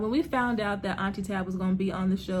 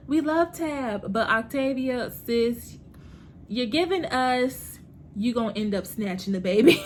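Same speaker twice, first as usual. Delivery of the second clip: teasing fan quote; 3 semitones higher than usual. Retold or imitated. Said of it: "a lot of people were like".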